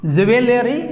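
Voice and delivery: "ज्वेलरी" as je-ve-le-ree; "ज्वेलरी" in four syllables, je-ve-le-ree; mispronunciation demo. Shown as a demonstration. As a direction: stretch "ज्वेलरी" with an extra "ve". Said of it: "जो बोलते हैं शुरू से".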